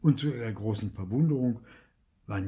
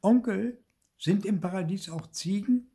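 high, loud call to his uncle; nephew calling out; 9 semitones higher, 4 dB louder than usual. A narrator's reading. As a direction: shout the question up ahead. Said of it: "rief ihr Neffe".

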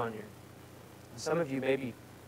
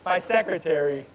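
laughing; 3 dB louder than usual. Real, not acted. Laughing at phone assistant's interruption.

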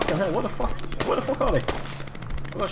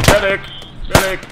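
man down shout. Real, not acted. Calling for a medic when shot.

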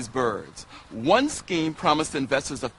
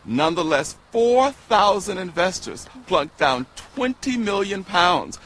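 normal talking voice

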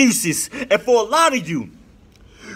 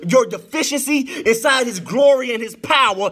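chanted sermon cadence, riding the organ; rising sung preacher's cadence; preaching at full force; 2 semitones higher than usual. Acted. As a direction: lift it into a whooping preach. Preacher whooping over organ.

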